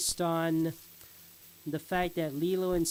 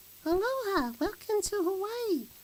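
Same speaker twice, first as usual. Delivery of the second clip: put-on much higher attempted girl voice. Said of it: "Lilo's like".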